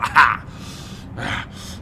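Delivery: wheezing laugh; coughing and wheezing. Pretend. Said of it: "I'm coughing and wheezing too now".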